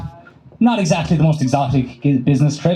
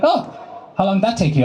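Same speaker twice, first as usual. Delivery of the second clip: a lightly voiced pub mate, rising on "Oh"; mock friend asking; 5 semitones higher than usual. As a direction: toss the question up brightly. Friend voiced in bar story.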